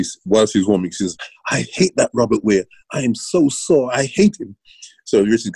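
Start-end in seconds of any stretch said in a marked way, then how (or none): 1.5-4.6 whiny complaint. Retold or imitated. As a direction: play the sore swimmer moaning about her coach. Athlete griping about sore training.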